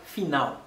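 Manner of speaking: "fina ou" ending in "ow"; final ou sound. Shown as a demonstration. Teacher giving an example word, final ou sound. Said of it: "la gen son ou".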